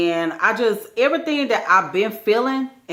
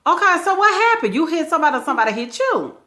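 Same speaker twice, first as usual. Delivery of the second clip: demanding questions; 9 semitones higher, faster than usual. Retold or imitated. She grills him on accident.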